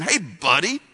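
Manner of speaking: sarcastic smart aleck. Retold or imitated. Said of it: "She had a little sarcasm. She was being a little smart aleck".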